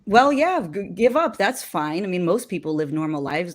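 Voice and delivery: loud brush-off at first, then offhand; dismissive shrug. Pretend. To his friend giving up, a careless brush-off. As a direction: wave him off, who cares. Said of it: "another Dennis who could respond and say".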